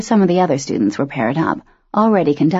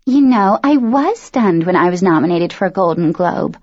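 celebrity interview voice; 3 semitones higher than usual. Acted. Dawn ad-libbing a celebrity interview.

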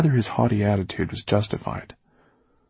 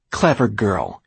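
scornful praise; 2 semitones higher, 4 dB louder, slower than usual. Acted. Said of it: "more like blame than praise".

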